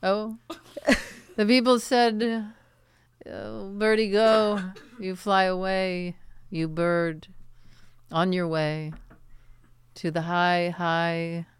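pompous poet reciting slowly; dramatic poetry reading. Pretend. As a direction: recite it like a grand poem. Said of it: "Can we hear one of your poems?".

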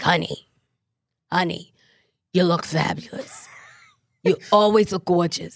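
a hint of a gushing New York fashion designer; Patricia Field impression. Mimicking the designer who always talks like this, lightly voiced. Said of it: "she always talks like this".

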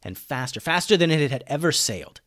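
animated storyteller, pitch rising on the exciting bits; story narration. A narrator's reading. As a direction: narrate an adventure tale with lively swings.

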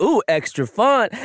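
high, teasing coo; mock delight; playful tease. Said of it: "it's just like".

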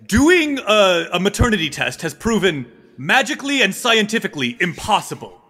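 proclaiming guard, punching the key words; formal guard. Acted. Tallest guard presents two women to his lord, declaiming. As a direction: announce the case to the throne.

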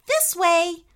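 high, cheery beckoning; smiling invitation. Acted. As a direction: lead friends on with a smile in a high voice.

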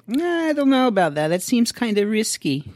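put-on high, loud old Jewish uncle voice; Jewish guy voice. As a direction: play a fretting Jewish uncle. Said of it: "This is my Jewish guy voice".

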